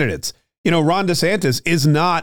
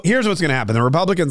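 clogged throat, needs water; talking through a dry, clogged throat; 2 semitones higher, faster than usual. Real, not acted. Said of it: "I'm choking on myself today".

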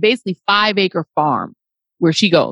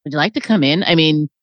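low-pitched, obliging dog hosting a burglar; casual, lowered dog voice; welcoming dog; 5 semitones lower than usual. Acted. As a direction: offer the goods like a helpful dog. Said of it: "This dog is like".

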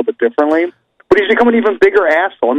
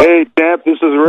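Ric Flair. Acted. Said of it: "Sam, you be Ric Flair calling one of his fans".

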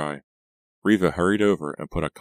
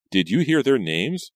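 eager; 8 semitones higher, 7 dB louder than usual. Acted. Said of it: "Reva asked eagerly".

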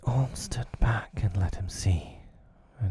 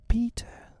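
put-on very high cry of the boys; cried out. A narrator's reading. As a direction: call out high, without extra volume. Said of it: "they cried".

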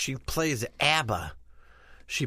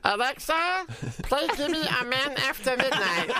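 laughing; 8 semitones higher than usual. Acted. Commanding smart speaker, laughing.

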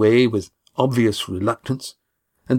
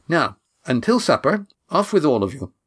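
higher, brisk ordering voice; bossy young woman; 5 semitones higher than usual. Acted. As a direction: hustle them along briskly. Kat shooing them.

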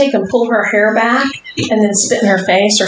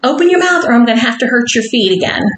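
playful dominatrix command; 4 semitones higher, faster than usual. Acted. Commanding slave, laughing.

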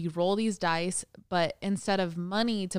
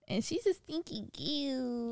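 cooing pet talk; 7 semitones higher, 6 dB quieter, slower than usual. Real, not acted. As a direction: coo it fondly at the pet. Cooing about the dog.

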